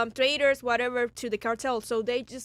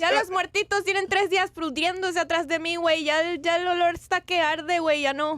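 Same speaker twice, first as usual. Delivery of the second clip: put-on Mexican accent. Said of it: "his Mexican accent".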